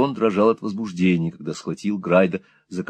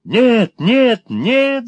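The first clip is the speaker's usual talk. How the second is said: much higher, squeaky frantic no; squeaking; 13 semitones higher, 5 dB louder, much slower than usual. A narrator's reading. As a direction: squeak in terror to stop him. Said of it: "запищал старик".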